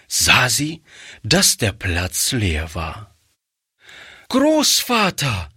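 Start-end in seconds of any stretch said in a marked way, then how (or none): 4.3-5.5 put-on high, drawn-out startled cry of a little girl; startled child. A narrator's reading. Frightened girl calls to her grandfather, high startled voice. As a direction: call out in a child's alarmed voice. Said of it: "rief das Kind erschrocken".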